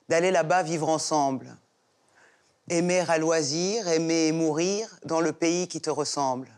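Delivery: poem recitation. Acted. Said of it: "qu'elle a très envie de nous déclamer un vers".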